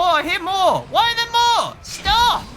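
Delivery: high, loud frantic pleading; panicked shouting. Real, not acted. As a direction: cry out as they keep coming. Attacked by more monsters.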